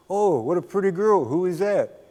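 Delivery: lightly acted delighted surprise; admiring visitor. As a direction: exclaim over a photo like an impressed visitor. Acting out office visitors admiring photo.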